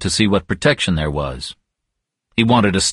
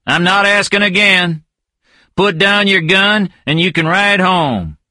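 high, firm warning voice; steady threat, last warning; stern gunman; 10 semitones higher than usual. Acted. Inman voiced in dialogue.

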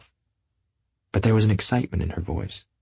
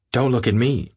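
retort; 4 semitones higher than usual. Acted. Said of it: "Daisy retorted".

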